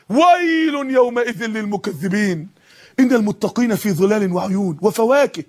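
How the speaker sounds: slow, drawn-out tajweed chant; Quran recitation. Acted. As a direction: intone the verse slowly and solemnly.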